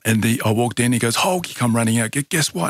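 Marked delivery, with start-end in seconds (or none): 1.2-1.5 imitating the kid's excited call, much higher. A boy runs out to greet Hulk, excited high call. 2.1-2.7 imitating the kid's eager question, much higher; bursting to share good news; eager excitement. A boy runs out to tell Hulk his news, eager and high.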